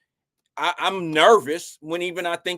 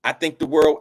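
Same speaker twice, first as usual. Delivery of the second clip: wearing a retainer; 4 dB louder than usual. Real, not acted. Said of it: "can't say that with my retainer in".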